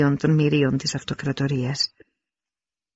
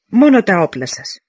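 envoy shouting; 5 semitones higher, 7 dB louder than usual. Acted. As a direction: herald calling out over the dead. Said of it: "φώναξε ο Τόμι".

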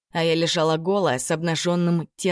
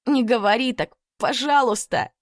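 tearful plea; 7 semitones higher than usual. Acted. Lilya pleading while crying.

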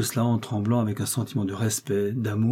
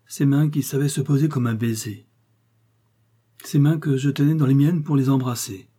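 raised, aching lament over her hands; anguished lament; 3 semitones higher, 3 dB louder than usual. Acted. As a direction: pour out grief for lost love. Lover's anguished lament over corpse.

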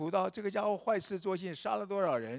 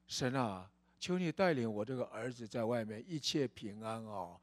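earnest prayer; 5 semitones lower than usual. Retold or imitated. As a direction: pray gently for a lost son. Mother praying for runaway son.

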